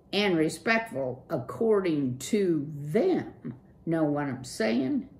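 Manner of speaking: laid-back slangy dude voice; surfer dude. Acted. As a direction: hip young street mouse. Clutch's cool dude voice.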